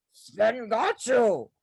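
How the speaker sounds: slow, loud reassuring line; calm him down slowly, it's fine; a hint of a big calm Swiss guy; reassuring instructor. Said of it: "he goes".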